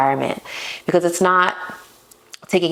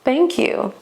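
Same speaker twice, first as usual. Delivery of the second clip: pleased high thanks; 9 semitones higher than usual. Retold or imitated. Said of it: "I was like".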